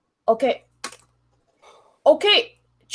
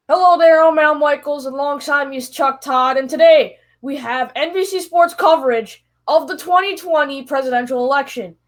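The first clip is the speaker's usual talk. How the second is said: Al Michaels impression. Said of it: "This will be an impression of the election coverage".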